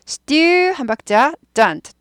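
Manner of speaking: student split into two beats, STYUU, dent. Shown as a demonstration. Teacher counting out the beats, syllable-by-syllable demo. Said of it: "두 박자예요".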